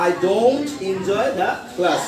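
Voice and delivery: slow "I don't enjoy the class", falling on "class". Shown as a demonstration. Teacher modelling a negative statement, falling on "class". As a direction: draw it out, then drop "class". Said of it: "down হবে না up হবে?".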